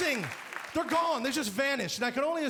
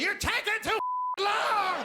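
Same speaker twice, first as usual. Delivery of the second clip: high, yelling impatient man; 10 semitones higher than usual. Retold or imitated. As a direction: bang on the door and yell. Drunk man yelling at stall.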